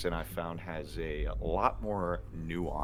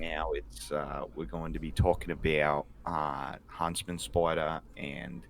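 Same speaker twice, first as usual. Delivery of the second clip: mock Australian host; Australian accent. Host announces the show's topics, put-on Australian accent. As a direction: keep up the put-on Aussie podcast voice. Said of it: "the Australian equivalent".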